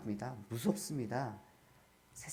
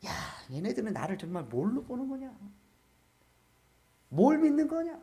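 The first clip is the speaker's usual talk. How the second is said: angry God; 4 semitones higher than usual. Acted. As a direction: scold them in exasperation, building at the end. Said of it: "하나님이 나중에 화가 나셨어요". (화나신 하나님의 꾸짖음을 흉내내기)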